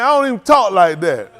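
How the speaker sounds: Hayward's line in a lightly voiced retelling; just a hint of Hayward in the voice; a light touch of imitation, barely changed; quoting Hayward. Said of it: "Hayward done sat here, man".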